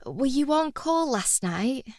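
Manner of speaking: soft, high sympathetic question. A narrator's reading. Patient asks the supposed junior doctor about work, sympathetically. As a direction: ask gently, voice lifted and softened. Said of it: "I ask sympathetically".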